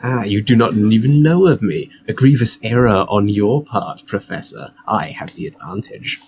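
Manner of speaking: theatrical voice. Acted. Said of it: "put on her best theatrical voice".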